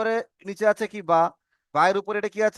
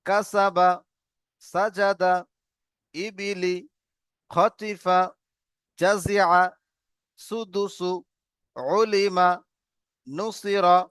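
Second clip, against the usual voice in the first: reading aloud; much slower than usual. Shown as a demonstration. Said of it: "একবার আমি reading বলে দেই উপর থেকে".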